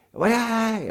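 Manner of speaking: put-on sharp, high, loud "Why?" shot back at a child; startled angry "Why?"; angry parent snap. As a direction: bark "Why?" like an upset mom. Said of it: "when you react in an angry voice".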